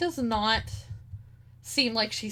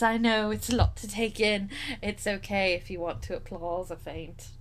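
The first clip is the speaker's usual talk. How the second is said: lightly voiced vain knight; boastful knight; 5 dB quieter than usual.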